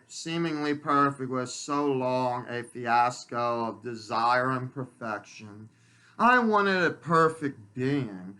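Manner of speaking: measured, emphatic poetry reading; poem recitation. Acted. Poet sharing own poems with the world, measured recitation. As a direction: recite it deliberately, with pauses between the lines. Reads second poem aloud.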